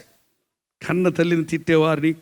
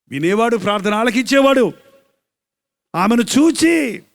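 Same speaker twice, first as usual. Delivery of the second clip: raised, drawn-out sermon delivery; full-force preaching; 6 semitones higher, 5 dB louder than usual. Acted. Preacher telling the congregation of a bereaved mother, full-force preaching. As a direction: preach it out, higher than normal talk.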